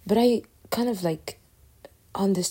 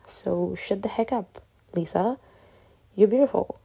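jokey self-pep talk. Shown as a demonstration. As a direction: hype yourself up with a grin, half joking. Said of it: "I would say that as in, like, I'm joking".

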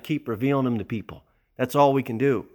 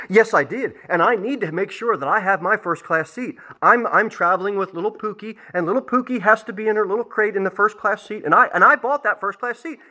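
a hint of an irate lady, a bit higher and insistent; irate entitled lady; 5 semitones higher than usual. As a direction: lightly play the pushy passenger demanding her seat. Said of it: "So this irate lady comes".

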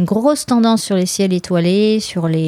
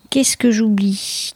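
whisper to herself; 3 semitones higher, slower than usual. Real, not acted. Thinking aloud, whispers to herself.

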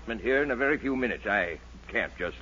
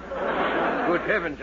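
stunned good heavens; 4 semitones higher, much slower than usual. Acted. Doctor amazed.

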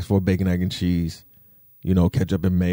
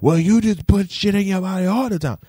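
high put-on voice of a know-it-all; mocking critic; 10 semitones higher, 3 dB louder than usual. Vlogger mocking imagined critics in a high voice. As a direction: mimic the smug critics. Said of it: "everybody will be like".

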